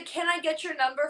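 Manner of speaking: lightly imitating a macho Italian pickup line; mock-macho come-on; Italian machismo. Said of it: "Italian machismo".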